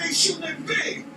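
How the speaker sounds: frantic Kenny. Retold or imitated. Kenny voiced in panic.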